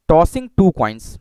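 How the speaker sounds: very slow, drawn out; slow dictation. Shown as a demonstration. Teacher dictating the experiment to students, slowly. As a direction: say it slowly as you write. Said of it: "धीरे धीरे मैं पढ़ रहा हूँ".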